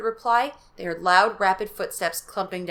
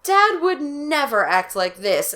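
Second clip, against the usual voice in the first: realizing; 6 semitones higher, 4 dB louder, slower than usual. Acted. Margaret panicking.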